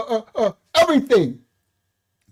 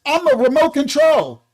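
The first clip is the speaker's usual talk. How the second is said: 1 mocking kids. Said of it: "the kids can say".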